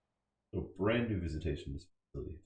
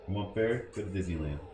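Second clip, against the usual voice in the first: mocking guard.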